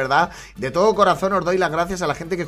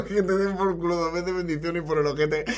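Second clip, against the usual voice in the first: laughing. Real, not acted. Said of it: "yo sin poder articular palabra". (citando entre risas suaves)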